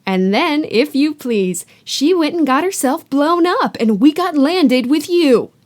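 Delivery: loud, bitter ranting aunt. Acted. Aunt ranting to Harry about her witch sister, loud. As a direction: rant like years of resentment bursting out. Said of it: "went ranting on".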